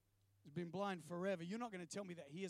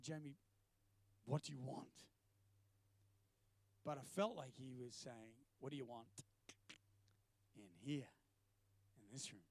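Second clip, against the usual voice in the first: low, quiet, weighty question; hushed voice of God; 8 semitones lower, 6 dB quieter than usual. Retold or imitated. God quietly asking Jamie what he wants, low and hushed. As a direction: lower right down, leaving long pauses. God gently probing him, retold.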